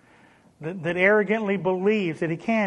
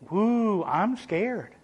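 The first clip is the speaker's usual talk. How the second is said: a light hammed-up "I'm scared"; God mocking the plotting kings, sarcastic; sarcastic mock fear; 3 semitones higher than usual. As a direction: tease the plotters with fake fright. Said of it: "But it's sarcasm".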